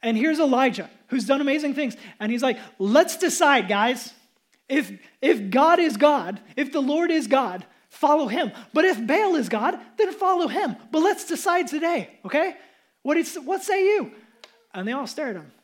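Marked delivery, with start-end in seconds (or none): 2.8-14.1 rousing prophet's dare; Elijah's challenge. Retold or imitated. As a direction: call the people out like a prophet. Elijah voiced challenging the crowd.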